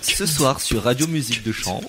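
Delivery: slow announcer voice; radio announcer. Pretend. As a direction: announce it like late-night radio. (animateur radio)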